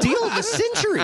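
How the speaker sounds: mock salesman boast. Mocking his own boast.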